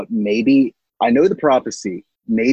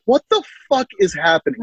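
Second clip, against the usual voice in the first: mock mutter; 9 semitones higher, faster than usual. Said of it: "muttering to herself".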